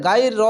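গাই র with a hard g and open 'gaai'; plain g sound. Shown as a demonstration. Teacher showing a mistake, গাই র with plain open 'gaai'. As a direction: say গাই র lightly, with an ordinary g. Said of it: "হবে না".

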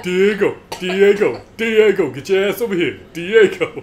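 loud, high calling out a name. Pretend. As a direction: yell for Diego across the house. Calling Diego like a parent.

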